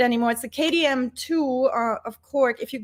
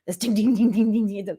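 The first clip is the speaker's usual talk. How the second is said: imitated ding. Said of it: "subdivision blasted".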